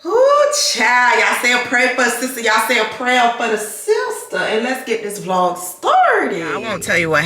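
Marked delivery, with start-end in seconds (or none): 0.0-4.4 dramatic plea. Real, not acted.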